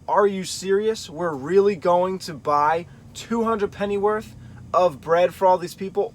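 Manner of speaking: lightly mocking, a little disbelieving; a touch of mock disbelief at the cost; slight mocking question. Shown as a demonstration. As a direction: ask it with a hint of scorn. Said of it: "you could look at it as a sort of slight mocking question".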